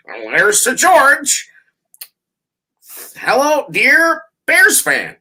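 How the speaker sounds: slow, high hammed-up greeting; mock Jonathan Hood fan greeting. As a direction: drag out the fan greeting sweetly. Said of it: "he always does those".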